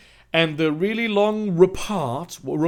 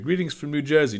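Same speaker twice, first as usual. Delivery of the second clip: a light, bad New Jersey accent; shitty New Jersey accent; 5 semitones lower, 5 dB quieter, faster than usual. Shown as a demonstration. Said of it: "a shitty New Jersey accent".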